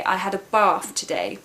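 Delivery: "bath" said "bahth", with a long open vowel; southern English long "ah" in "bath". Shown as a demonstration. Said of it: "we make the long A sound".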